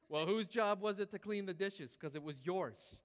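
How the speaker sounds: mock-scold with a slight put-on accent; lightly voiced scolding mom. Mom blames her kid for the dirty dishes, mock scolding. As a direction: caricature mom, loud start, slowing on the last words. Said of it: "Why am I doing this accent?".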